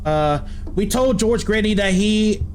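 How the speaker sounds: put-on hushed, scared old Southern voice; country accent. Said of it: "Why am I speaking in a country accent".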